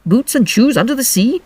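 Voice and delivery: grave, deliberate Griffin; deep voice. A narrator's reading. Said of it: "in a deep voice".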